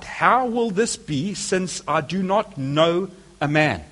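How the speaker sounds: slow wondering question. Retold or imitated. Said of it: "said to the angel".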